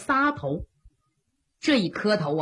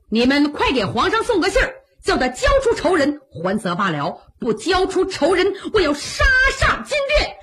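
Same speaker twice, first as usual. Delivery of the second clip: defiant demand; 6 semitones higher than usual. Acted. Widow threatens at palace gate.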